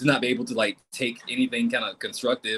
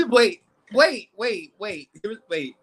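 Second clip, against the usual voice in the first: laughing; 7 semitones higher, much slower than usual. Real, not acted. Laughing, stops herself.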